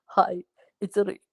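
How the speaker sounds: hint of a Polish accent; imitated Polish accent. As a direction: mimic a newcomer with little English. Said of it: "he had no English".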